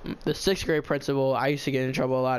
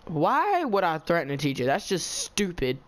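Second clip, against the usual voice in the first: indignant retort. Retold or imitated. Student denying threatening a teacher, re-enacted indignation. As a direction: act out offended disbelief, slowing at the end.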